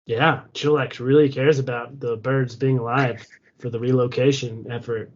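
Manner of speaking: dry, understated sarcasm; sarcastic. Acted. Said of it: "I'm being sarcastic".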